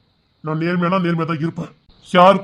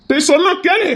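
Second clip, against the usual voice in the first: higher, louder insistence; urgent pleading; 11 semitones higher, 4 dB louder than usual. Acted. Elder urging brother to listen, loud pleading. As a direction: plead hard to make him listen.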